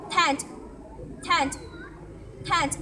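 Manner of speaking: "Tent" with a short open e; vowel demo word. Shown as a demonstration. Child teacher repeats the word for the class. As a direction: drill "tent" for learners.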